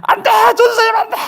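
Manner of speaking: very high, loud, tearful shriek; imitated hysterical wail of protest; crying, screaming wife. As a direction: scream desperately to stop them, sobbing. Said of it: "울면서".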